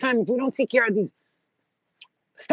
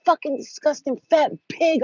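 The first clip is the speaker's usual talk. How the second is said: mock insult; 6 semitones higher than usual. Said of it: "I was calling".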